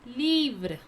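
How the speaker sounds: "Livre" said as "LEEVR", falling; pronunciation demo. Shown as a demonstration. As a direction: model French "Livre" with long ee and light final vr. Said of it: "How to pronounce?".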